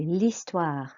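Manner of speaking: L'HISTOIRE with no H, "lee-STWAR"; silent H. Shown as a demonstration. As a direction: model French L'HISTOIRE, dropping the H. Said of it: "you do not pronounce the H".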